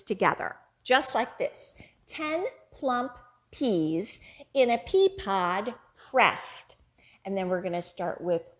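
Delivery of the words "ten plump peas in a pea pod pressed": put-on slow, louder rhyme chant for kids; action rhyme. Shown as a demonstration. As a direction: chant it out for little ones. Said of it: "as we say our finger play".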